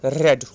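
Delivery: रेड said like red; teacher says रेड with a short e, as in red; past tense read. Shown as a demonstration. Teacher shows class the past form, रेड like red. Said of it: "इसका pronunciation हमने क्या किया".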